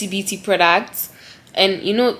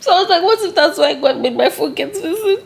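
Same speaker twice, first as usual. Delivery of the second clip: giggling through a tearful confession; laughing at herself mid-tears; 4 semitones higher than usual. Real, not acted. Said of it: "she said it, like, four times".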